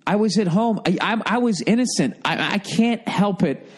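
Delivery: smug, slowed-down plea of innocence; totally arrogant. Pretend. Brother to angry sister, a mildly smug mock plea. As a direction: play the smug innocent, lightly. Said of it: "I would just go totally fucking arrogant".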